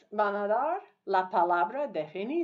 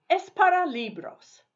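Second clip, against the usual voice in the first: bright call-out; 7 semitones higher, 5 dB louder than usual. Shown as a demonstration. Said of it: "teacher reads prompt twice".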